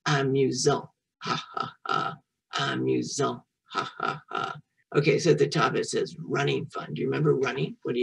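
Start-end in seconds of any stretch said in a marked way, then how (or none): 1.2-2.1 imitated laugh. Shown as a demonstration. Acts out "fun" for children. 3.7-4.6 imitated laugh. Shown as a demonstration. Acts out "fun" for children.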